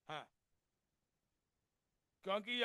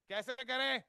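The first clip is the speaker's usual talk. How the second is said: louder ask. Shown as a demonstration. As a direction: push "करें" up and out to the congregation. ("कैसे करें?" ज़ोर से दोबारा पूछें)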